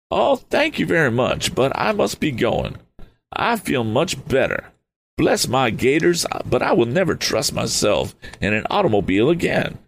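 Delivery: a fluttery eccentric, relieved; eccentric Mr Damon. Acted.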